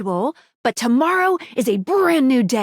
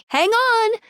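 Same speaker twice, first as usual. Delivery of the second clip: sudden higher-pitched urgent call; urgent interjection; 10 semitones higher than usual. Acted. Guide halts player as content warning goes off, urgent interjection.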